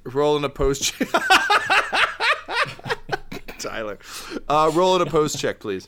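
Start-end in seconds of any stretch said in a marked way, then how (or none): 1.1-3.5 long, high burst of laughter; helpless laughter. Real, not acted. Game master losing it at the players' antics, helpless high laughter. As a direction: crack up completely mid-ruling. GM cracks up while calling a roll.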